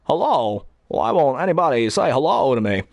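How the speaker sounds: exaggerated impersonator Walken; hammy cartoon-style Walken; the cliché Walken everyone does; cartoon Christopher Walken. Shown as a demonstration. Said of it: "here is the one that cartoons do".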